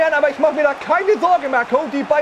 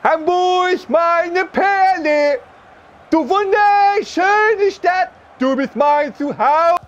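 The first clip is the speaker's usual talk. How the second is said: slow sentimental; 2 semitones higher, much slower than usual. Acted. Declaring love to Hamburg.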